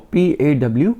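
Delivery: पी ए डब्ल्यू letter by letter, clearly; spelling out letters. Shown as a demonstration. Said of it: "बोलते हैं पॉ". (अक्षर-अक्षर करके बोलना)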